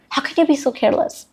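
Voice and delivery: high scolding mom; a mom scolding her careless kid. Retold or imitated. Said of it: "a very mom sentence".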